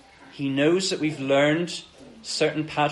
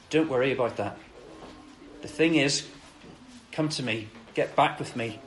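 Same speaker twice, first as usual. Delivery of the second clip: gentle reassurance; 5 dB quieter than usual. Retold or imitated. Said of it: "here Jesus is saying".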